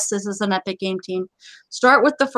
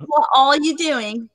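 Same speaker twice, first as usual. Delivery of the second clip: hammed-up, butchered European accent; badly faked European accent; mock European accent; 3 semitones higher, slower than usual. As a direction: playfully attempt a vague European accent. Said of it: "our attempt at butchering a European accent".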